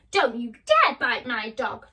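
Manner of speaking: loud protective cry. Acted. Dorothy shouts at the lion to protect Toto. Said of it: "Dorothy cried".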